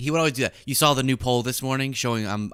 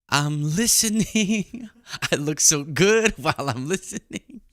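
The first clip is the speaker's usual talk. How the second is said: hammed-up narcissistic actress, pitched way up; self-obsessed inner voice; 6 semitones higher than usual. Vain actress thinking to herself while pretending to listen, high self-obsessed voice. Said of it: "That's what's going on here".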